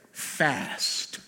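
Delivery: breathy whispered fast. Acted. Preacher whispers God's word to fast. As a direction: whisper it gently. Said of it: "He'll whisper and say".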